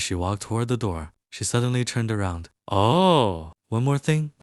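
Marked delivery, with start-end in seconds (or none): 2.7-4.3 higher and louder, catching him before leaving; a sudden afterthought, raised voice; calling back. Acted. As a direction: call back brightly from the door. Turns back at the door.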